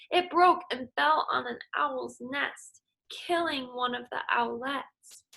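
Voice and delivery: lively storybook read-aloud for a class; teacher reading a folk tale aloud; story reading to children. Acted. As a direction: read it like story time, voicing every animal. Reads picture book to class.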